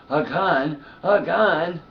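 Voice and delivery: imitating people in disbelief; mock disbelief. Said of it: "everybody's going".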